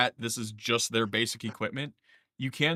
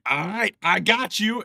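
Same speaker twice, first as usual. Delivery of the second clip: hearty agreement; 8 semitones higher, 6 dB louder than usual. Acted. NPC cheerfully agrees to help.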